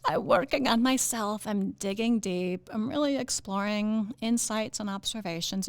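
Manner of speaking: lightly mocking hokey self-help voice; a hint of put-on earnestness; go-to self-improvement voice. Host mocking hokey self-improvement talk, lightly put-on self-help voice. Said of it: "that's the go-to voice".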